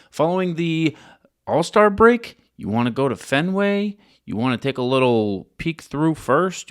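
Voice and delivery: upbeat sponsor read to the listeners; podcast ad read for ticket app. Acted. Host reads sponsor ad.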